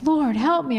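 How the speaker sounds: praying plea. Retold or imitated. Wife praying alone over the pot, acted pleading. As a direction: plead briefly, pitch lifted. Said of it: "praying, like".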